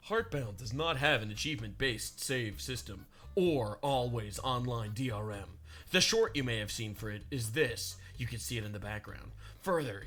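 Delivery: low lightly voiced Pirate Software. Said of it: "Doing the pirate voice".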